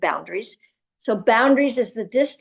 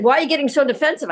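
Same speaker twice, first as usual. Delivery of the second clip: mock boss; 5 semitones higher, 3 dB louder, much faster than usual. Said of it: "you're yelling at me".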